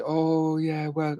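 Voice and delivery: light impression of a friend's accent; Damien's accent. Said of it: "I shouldn't do his accent".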